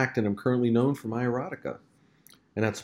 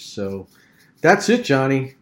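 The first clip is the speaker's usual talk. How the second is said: usual speaking voice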